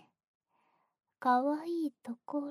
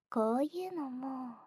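breathy ear whisper; teasing whisper. Acted. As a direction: whisper the question slyly.

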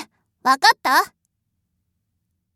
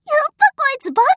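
gleeful taunt; 9 semitones higher, 4 dB louder, much faster than usual. Acted. Mocking servant, laughing.

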